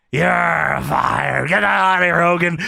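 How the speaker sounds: drawn-out mock-angry dismissal; mock shouted firing. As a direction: bellow it like an irate boss, half-joking. Acting out McMahon firing Hogan.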